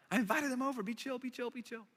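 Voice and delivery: fading to a hush on be chill; hushing plea. Retold or imitated. Matthew hushes Jesus in front of friends, fading soft.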